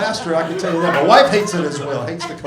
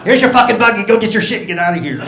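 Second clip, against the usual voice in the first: wife; 6 semitones higher, 3 dB louder, much faster than usual. Retold or imitated. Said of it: "That's just my wife".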